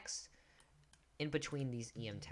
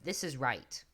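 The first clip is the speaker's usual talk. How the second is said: mock webpage voice; 3 semitones higher, 4 dB louder, slower than usual. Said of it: "underline it to show".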